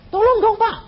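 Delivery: high, pleading call for help; pleading caller. Retold or imitated. Frightened believer begs the pastor: high pleading cry.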